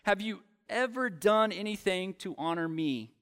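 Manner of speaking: lightly voiced resentful son airing grievances; bitter complaint. Older son protesting to his father, mildly bitter and aggrieved. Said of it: "this older brother".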